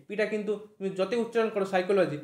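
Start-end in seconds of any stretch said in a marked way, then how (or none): 1.6-2.2 সাইকোলজি with the initial P left silent. Shown as a demonstration. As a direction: say সাইকোলজি starting on an S sound, no P. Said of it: "সেখানে কোথাও পি নেই". (সাইকোলজি, শুরুর পি অনুচ্চারিত)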